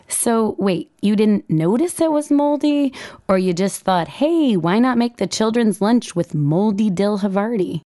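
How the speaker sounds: rising, needling shrill-edged blame; a touch of a scolding harpy wife; shrieking harpy. Retold or imitated. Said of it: "put the harp back in Shrieking Harpy".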